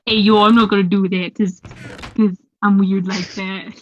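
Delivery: goofy put-on voice, slowing at the end; weird voice. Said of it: "like my weird voice".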